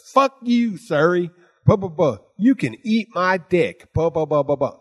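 high-pitched imitation of an angry rant; mock cursing. Co-host cursing at Siri, retold as a high mock rant.

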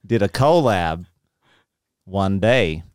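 broken-up Southern delivery, long pauses; resume the mock Southern accent; Southern American accent. Co-host imagining a collab in a put-on Southern accent. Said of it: "Answer the Tipper question in this accent".

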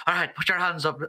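light Irish lilt on the command; a hint of an Irish accent. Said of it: "why he was Irish in that".

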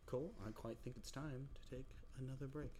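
hammed-up show host calling a break; mock announcer. Host to co-host, mock posh break call.

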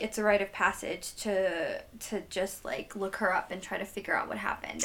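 whisper. Real, not acted. Drops to whisper about mystery.

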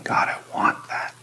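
a hushed, longing plea; whispered prayer. Acted. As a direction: whisper it, aching for God.

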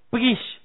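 pgish said as one clipped syllable, p and g together; Hebrew pgish. Shown as a demonstration. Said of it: "Pgish, así dice el audio".

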